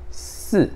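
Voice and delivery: "si" with the sound kept inside; inward "si". Shown as a demonstration. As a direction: Mandarin fourth-tone "si", pulled inward. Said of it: "Pra dentro".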